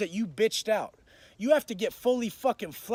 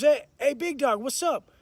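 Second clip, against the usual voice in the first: neighbor's call, higher, loud first word; 4 semitones higher, 4 dB louder than usual. Retold or imitated. Neighbor checking on him through the vent, calling out. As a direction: imitate calling through a vent to the next cell.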